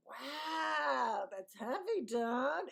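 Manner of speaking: put-on wowed voice, stretched and swooping; exaggerated awe. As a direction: ham up being deeply impressed. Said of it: "Except I didn't talk like that".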